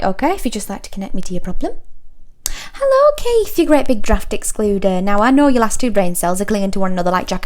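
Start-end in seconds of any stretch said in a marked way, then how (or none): 2.5-5.0 mock-sweet greeting. Operator turns on rude customer.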